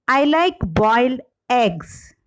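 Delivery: eggs stressed at the end of the sentence. Shown as a demonstration. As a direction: lean on the last word, eggs. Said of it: "the shift in the primary stress".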